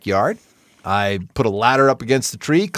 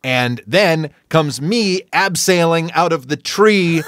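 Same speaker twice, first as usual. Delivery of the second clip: ordinary talk, nothing marked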